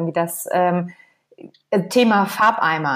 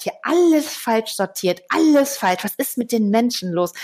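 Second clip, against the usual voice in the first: indignant garbage-man dad; 2 semitones higher than usual. Retold or imitated. Loriot father rummaging through the bins, hammed-up indignation. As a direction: scold the badly sorted bins like a fussy father. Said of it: "und sagt".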